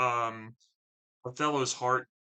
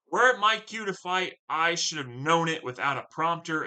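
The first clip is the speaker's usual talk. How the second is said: Othello calmly defiant, a louder, higher opening; bold Othello line; 3 semitones higher, 4 dB louder than usual. Acted. Othello answering the armed men, dramatic reading. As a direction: deliver it like a commander unimpressed by threats.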